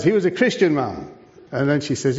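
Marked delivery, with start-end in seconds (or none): 0.0-1.1 higher pitch, dropping on "ma'am"; eager retelling. Retold or imitated. Joseph pressing his point to the royal visitor, eagerly. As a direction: imitate someone keenly making a point.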